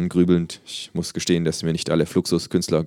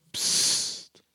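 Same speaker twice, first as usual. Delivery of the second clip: soft voiceless hush; whispered shush; 5 dB quieter than usual. A narrator's reading. Patient in bed to noisy kangaroo, whispered shush. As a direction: shush them under your breath. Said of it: "flüstere ich".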